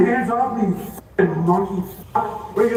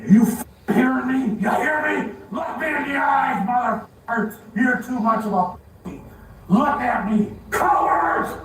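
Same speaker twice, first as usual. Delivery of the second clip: shouting; 3 semitones higher than usual. Real, not acted. Arrestee yelling at officers.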